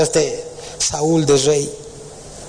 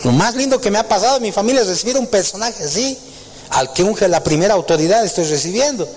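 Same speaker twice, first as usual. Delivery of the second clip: put-on higher, fast and delighted old father; excited Isaí; 6 semitones higher than usual. Isaí welcoming the prophet, lightly voiced and excited. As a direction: gush with honour at the guest. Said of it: "el Isaí dice".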